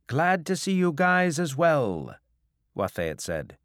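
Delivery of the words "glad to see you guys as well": high, loud breezy greeting; calling back. Acted. Captain answering the creditors who shouted at him, loudly breezy. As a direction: call it over the heckling crowd.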